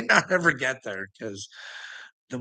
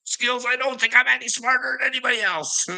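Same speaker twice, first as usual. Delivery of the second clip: mock modesty; 9 semitones higher than usual. Real, not acted. Mock-humble address to Skills.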